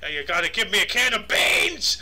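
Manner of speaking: hammed-up cartoon character, ending on a big outburst; Lumpy Space Princess. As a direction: do a sassy cartoon impression, stretching the words. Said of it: "that sounds like Lumpy Space Princess".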